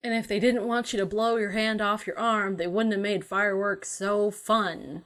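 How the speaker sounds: dry sarcasm, only lightly marked; sarcastic. Real, not acted. Co-host needling the fireworks fans, sarcastic. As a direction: say it with understated sarcasm. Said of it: "you're being sarcastic".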